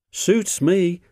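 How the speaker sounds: high, pleased agreement; smiling. A narrator's reading. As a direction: accept friendship with a smile. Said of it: "smiled Rusty".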